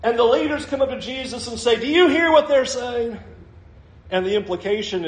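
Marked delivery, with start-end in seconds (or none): 1.8-3.2 higher-pitched, accusing question; challenging. Acted. Leaders come up to confront Jesus, acted challenge. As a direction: confront him as an offended leader would. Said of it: "they challenge Jesus".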